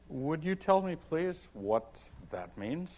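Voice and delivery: lightly voiced polite girl; polite Alice. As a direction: ask meekly like a well-mannered child. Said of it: "talk like a reasonable child".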